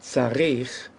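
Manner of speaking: "tzarich" as tza-RICH; "tzarich" with its weight on RICH; stress on last syllable. Shown as a demonstration. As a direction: land the accent on the second syllable of "tzarich". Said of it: "the accent wasn't on the first syllable".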